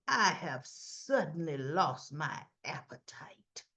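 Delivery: low, slow, whispery delivery; pointed low exit line. Retold or imitated. Martin walks out on Lucy at the table, low and whispery. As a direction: draw it out slowly, half-whispered. Acts out Martin coldly walking out.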